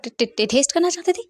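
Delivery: high, stuttering disbelief; stammering shock. Acted. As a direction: trip over the word in shock.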